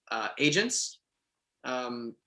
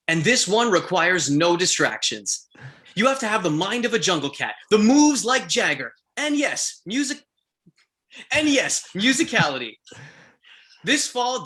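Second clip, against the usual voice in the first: game promo announcer; 5 semitones higher than usual. Shown as a demonstration. Voice actor reading ad copy for an audition challenge, announcer voice. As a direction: sell it like a hyped-up trailer. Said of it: "do the audition challenge".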